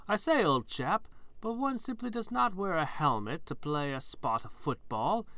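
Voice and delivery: imperious plummy grande dame. Pretend. Posh Brit mocking item text.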